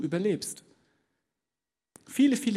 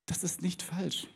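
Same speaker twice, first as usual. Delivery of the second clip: soft, slow whisper; 4 semitones higher, 8 dB quieter than usual. Real, not acted. Preacher granting the listener a point, slow whisper. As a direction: concede it quietly, almost under your breath. Quiet concession in the sermon.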